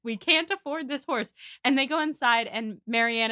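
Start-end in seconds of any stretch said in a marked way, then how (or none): 0.0-1.3 high, strained aside through a smile; acted exasperation behind a smile; forced smile. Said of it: "trying to keep smiling".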